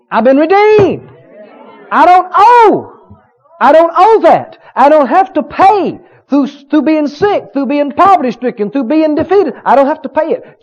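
shouting sermon declaration; preaching at full force. Acted. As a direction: testify it loud and high.

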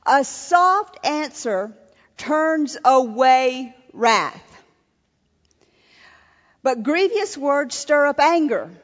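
deliberate, emphatic Bible verse; scripture reading. Acted. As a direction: proclaim the proverb, weighting the key words. Reads scripture aloud to audience.

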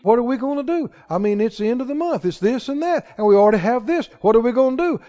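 soft, hurried mock fretting; imitated worrier. Somebody facing an unexpected bill, mock-worried. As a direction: fret quietly over the bills. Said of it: "Somebody says".

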